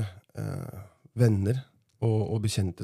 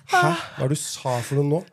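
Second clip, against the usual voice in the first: baffled friend, mock; 5 semitones higher than usual. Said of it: "bare sånn".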